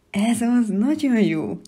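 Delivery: loud, eager praise; praising. Acted. The No creature praising the child loudly. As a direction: cheer the child on. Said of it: "dicsért meg a nem".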